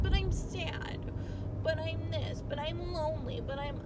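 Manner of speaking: high, pitiful whine of excuses; mock whiny self-pity. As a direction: whimper out the excuses like a sulking kid. Whining back at her inner critic.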